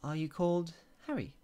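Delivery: the Queen tries a first guess, lifted and high. A narrator's reading. Queen guessing the little man's name, high and hopeful. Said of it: "she asked again".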